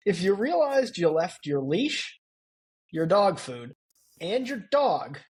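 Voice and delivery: deadpan the punchline like a sarcastic PA; snarky announcement. Retold or imitated. Retelling a TSA airport announcement to his cohost, snarky. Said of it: "it was all snarky".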